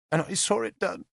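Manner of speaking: put-on high, small child's voice, reciting; a nine-year-old saying rehearsed words; young girl. Little witness telling the lords her loss, childlike recital.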